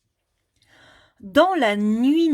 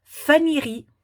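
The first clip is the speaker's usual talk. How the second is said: higher reveal; 5 semitones higher, 3 dB louder than usual. Shown as a demonstration. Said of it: "ça va donner".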